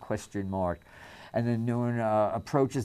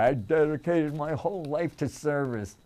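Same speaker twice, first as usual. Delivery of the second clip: pompous senator; 3 semitones higher than usual. Retold or imitated. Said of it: "he said the first part".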